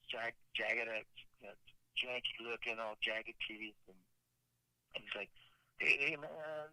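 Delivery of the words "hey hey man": lightly drawled Southern homeless guy greeting; a hint of a Southern drifter saying hey; mild imitated Southern accent. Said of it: "with a southern accent".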